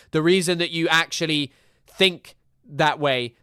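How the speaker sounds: loud, heated rant at the critics; angry rant. Real, not acted.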